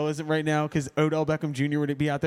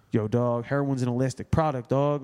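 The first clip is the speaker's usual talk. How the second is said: put-on low Baltimore street-dealer accent; imitated Baltimore accent; 4 semitones lower than usual. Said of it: "his accent and shit would go from".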